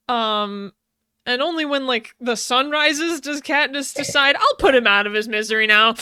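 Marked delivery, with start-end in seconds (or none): 4.4-5.9 mock cold resolve. Retelling Katniss's decision.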